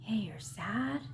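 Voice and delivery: slow coaxing whisper, lightly voiced; a hint of a child luring you in, hushed; inner child whispering. Inner child pulls the listener into sadness, slow whisper. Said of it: "The inner child would come and say".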